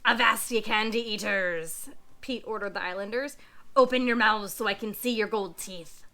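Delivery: low gruff pirate captain. Acted. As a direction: growl it like a greedy old sea dog. Pete orders islanders.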